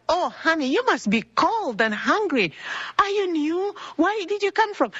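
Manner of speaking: high-pitched, fussing sympathy; retold motherly concern. Kind lady comforting a lost newcomer, retold warm concern. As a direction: imitate a kind stranger gently fussing over a newcomer. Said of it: "She made me feel at ease".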